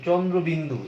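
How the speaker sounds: চন্দ্রবিন্দু as "chondrobindu", all syllables sounded; deliberate, careful চন্দ্রবিন্দু; full letter-name pronunciation. Shown as a demonstration. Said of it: "এরকম উচ্চারণ করি না".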